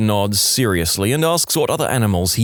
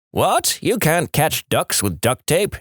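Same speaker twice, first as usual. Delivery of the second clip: incredulous; 5 semitones higher, slower than usual. Acted. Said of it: "he yells back".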